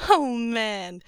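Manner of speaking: man in black laughing at the captive; bright laugh. Acted. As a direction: burst of cheerful laughter. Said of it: "burst out laughing".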